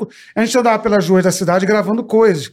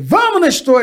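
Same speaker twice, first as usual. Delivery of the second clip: excited call; 7 semitones higher, slower than usual. Retold or imitated. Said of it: "Eu falei".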